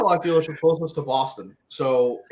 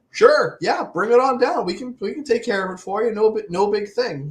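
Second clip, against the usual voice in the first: higher-pitched, breezily agreeable retold answer; obliging reply; 6 semitones higher than usual. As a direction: act out cheerfully agreeing to a favour. Acts out obliging a cop mid-traffic.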